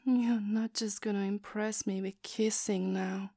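soft, breathy dare whispered close; teasing whisper. Acted. To her boyfriend, daring him to dominate, in a teasing whisper. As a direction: whisper it like a challenge you expect to win.

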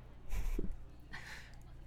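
short breathy chuckle; quiet, teasing huff of laughter; taunting chuckle. Acted. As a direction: laugh softly under the breath. Mocking partner in audio roleplay.

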